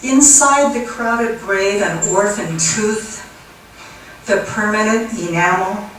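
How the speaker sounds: spare, deliberate reading with long pauses; poem recitation. Acted. Poet reads five words of an anti-war poem, deliberate recitation. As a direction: announce the word, pause, then recite the verse.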